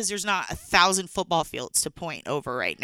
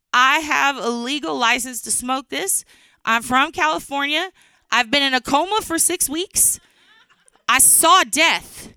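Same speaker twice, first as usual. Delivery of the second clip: stoned guy; 4 semitones higher than usual. Retold or imitated. Stoned guy's announcement.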